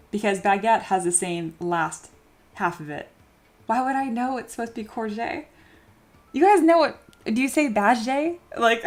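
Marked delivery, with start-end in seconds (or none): 3.7-5.5 ends on "courgette" said kor-ZHAY; "courgette" with a soft J at the end of the question; correct courgette. Shown as a demonstration. Protesting to chat, ending on a soft-J courgette. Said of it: "You pronounce the G like a soft J".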